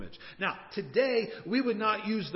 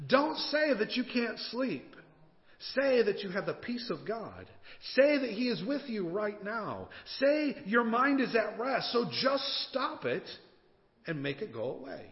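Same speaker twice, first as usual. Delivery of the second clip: kinda loud; 6 semitones higher than usual. Acted. Wife telling sleepless husband what to say, firmly insistent. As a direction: order him firmly, spacing out the words. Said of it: "she said it kinda loudly".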